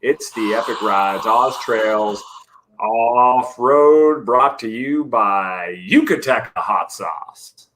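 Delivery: lightly hammed-up race announcer. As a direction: welcome the crowd like an event announcer. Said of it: "my announcer voice ready for next week".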